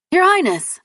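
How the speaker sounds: loud call across the field. Acted. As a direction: call out to get her attention. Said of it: "Edwin called".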